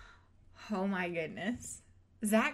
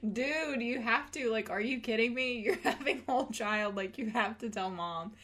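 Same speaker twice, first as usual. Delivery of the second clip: exasperated sister; 3 semitones higher than usual. Retold or imitated. Acting exasperated sister urging her.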